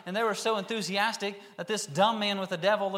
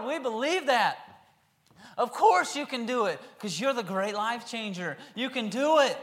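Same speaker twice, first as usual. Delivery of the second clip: high, loud, laughing eagerness; excited answer; 5 semitones higher, 5 dB louder than usual. Shown as a demonstration. Healed blind men answering Jesus, loud and laughing. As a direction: answer like you just saw a miracle. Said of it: "I believe they said".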